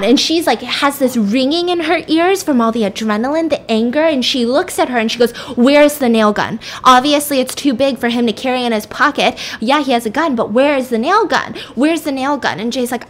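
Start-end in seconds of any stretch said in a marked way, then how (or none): 5.6-12.6 insistent, mildly heated acted demand; getting mad. Darby questions Jay about the nail gun, getting mad. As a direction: demand an answer with a touch of anger. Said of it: "she's getting mad".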